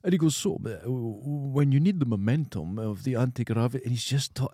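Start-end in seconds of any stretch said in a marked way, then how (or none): 0.4-3.8 put-on Dundee accent. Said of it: "He had the old Dundee accent".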